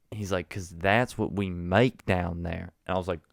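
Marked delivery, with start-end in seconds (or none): 0.5-2.7 Southern gentleman. Retold or imitated. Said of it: "there was this Southern gentleman there".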